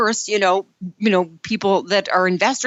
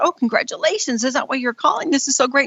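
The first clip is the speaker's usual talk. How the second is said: bright, pleased congratulations; retold delight; 5 semitones higher than usual. To a crying filmmaker, delighted congratulations. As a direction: cheer her on, not knowing the news. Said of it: "And I said".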